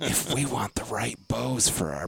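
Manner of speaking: tag. Retold or imitated. Imitates whisperers' trivial secret talk.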